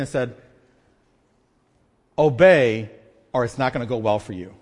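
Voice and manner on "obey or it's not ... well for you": firm parental warning, hard on the first word then lower; a touch of exasperated parent laying down the law; stern parent. Acted. Parent at the end of frustration warns a two-year-old, stern. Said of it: "you say it in that voice".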